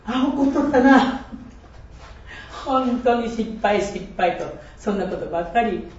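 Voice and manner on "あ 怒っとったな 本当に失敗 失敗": retold self-reproach. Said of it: "そういう時にはね".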